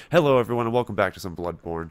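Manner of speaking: bright, loud show-intro hello; intro greeting. Real, not acted. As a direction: greet the audience like a host. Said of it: "use this as the intro".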